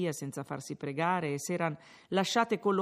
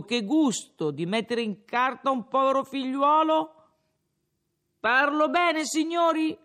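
tipsy rambling higher, louder; a drunk lecturing the innkeeper, pleased with himself; slurred tavern speech, rising as he goes; drunken Renzo; 5 semitones higher, 6 dB louder than usual. Acted.

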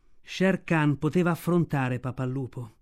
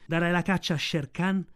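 mother wolf. Acted. Mother wolf speaks to cub.

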